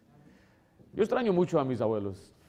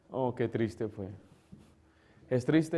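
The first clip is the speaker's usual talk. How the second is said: usual speaking voice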